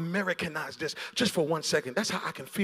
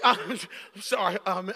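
laughing apology; slower than usual. Real, not acted. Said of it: "I didn't mean to raise my voice".

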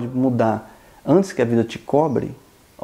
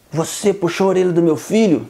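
higher, bolder challenge in a bar; tough-guy challenge; 6 semitones higher than usual. Retold or imitated. Father confronts the man in the bar, a mild mock bravado. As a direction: confront him like a bully. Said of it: "chegou todo valentão".

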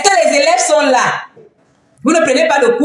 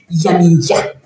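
"Yamiya" pitched low, from the guts; 6 semitones lower than usual. Shown as a demonstration. Streamer showing how guts come out, low gut-felt "Yamiya". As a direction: drop "Yamiya" deep into the belly. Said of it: "Les tripes veulent sortir".

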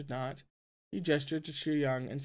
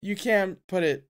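put-on drunken slur; 4 dB louder than usual. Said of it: "he slurred".

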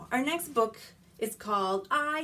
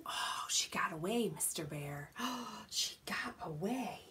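whispering; 2 semitones lower, 5 dB quieter than usual. Acted. Whispered to puppet.

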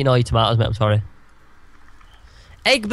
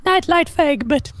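put-on baby talk; 13 semitones higher than usual. Cooing at the egg.

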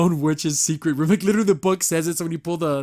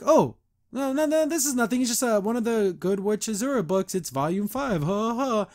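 higher, flustered denial with a forced little laugh; nervous cover-up; 5 semitones higher than usual. Retold or imitated. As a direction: brush it off like you're hiding something. Luce hiding the diary, covering.

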